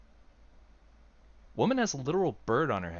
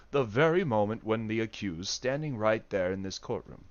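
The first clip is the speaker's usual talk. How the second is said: lower, plainer take in his own lawyer voice; 4 semitones lower than usual. Acted. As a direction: drop the British accent and speak as himself. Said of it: "That's him, not Ryunosuke"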